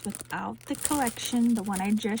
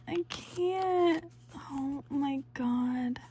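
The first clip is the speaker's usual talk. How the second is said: overwhelmed; 4 semitones higher, much slower than usual. Real, not acted. Overwhelmed by beautiful kit.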